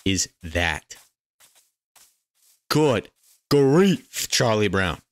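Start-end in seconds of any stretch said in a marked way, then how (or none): 2.7-5.0 high, loud cry of amazement; astonished exclamation. Real, not acted. Player spots a mountain, astonished exclamation. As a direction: call it out high, punching the second word.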